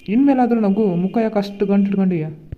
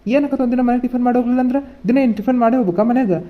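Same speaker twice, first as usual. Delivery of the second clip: raised, irritated voice at his wife; angry scolding; 2 semitones higher, 4 dB louder than usual. Acted. Husband angrily scolding wife for forcing breakfast, irritated. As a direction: snap at her, rushing out to work. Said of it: "ನನಗೆ ಭಾಳ ತುಂಬಾ ಕೋಪ ಬರ್ತೈತಿ".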